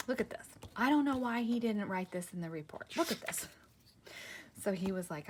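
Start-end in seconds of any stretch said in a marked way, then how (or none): 0.1-3.5 excited doctor. Retold or imitated.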